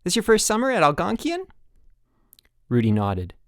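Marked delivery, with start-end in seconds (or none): 0.0-1.4 high, bright, louder chipper coach; sunny camp-coach voice. Acted. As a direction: beam at the new kid.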